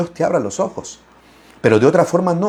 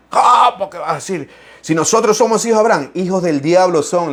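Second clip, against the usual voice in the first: indignant Pharisee; 3 semitones higher than usual. Acted. Pharisees' indignant reply, acted.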